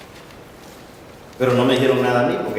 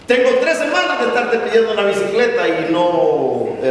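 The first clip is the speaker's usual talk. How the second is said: sharp high cry of "Dios", then higher indignant griping; angry complaint to God; 7 semitones higher than usual. Retold or imitated. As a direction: complain to God in frustration, pitched up. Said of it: "se fue el más enojado".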